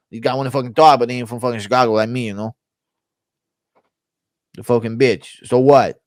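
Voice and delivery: lightly put-on Chicago tough-guy voice; rambling, run-on defiance; Belal impression. Belal challenging others to talk, run-on Chicago defiance. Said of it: "Belal impression".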